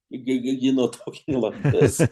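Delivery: imitating his own nervous stutter, jumpy pitch; nervous stammer. Shown as a demonstration. Musician showing how he talked on Goodman's call, nervous stammer. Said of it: "I was so nervous, I started".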